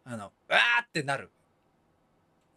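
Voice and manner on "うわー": Kansai exclamation. Retold or imitated. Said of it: "この素早く関西風で言ったんだ".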